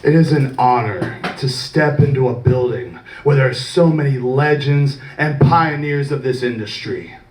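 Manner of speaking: measured, solemn promo to the camera; lightly voiced babyface promo; serious wrestling promo. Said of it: "Okay, perfect, perfect".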